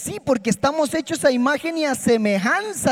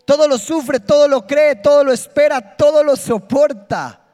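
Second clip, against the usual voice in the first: louder, every todo hammered out; loud proclamation; 3 semitones higher, 6 dB louder than usual. Shown as a demonstration. Preacher leading the congregation in a loud proclamation. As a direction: proclaim each line like a rallying cry. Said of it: "quiero que lea esto conmigo".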